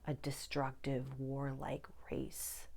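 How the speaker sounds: slow hushed whisper. Real, not acted. Warning viewers about humankind, whispered. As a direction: confide it like a grim secret.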